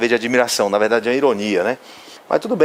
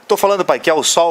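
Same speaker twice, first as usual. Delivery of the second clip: lightly voiced impatient kid, higher pitched; insistent know-it-all son; 5 semitones higher than usual. Son insisting to his father about the drawing, mock impatient. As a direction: insist like a cocky child cutting in. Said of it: "é muito apressado".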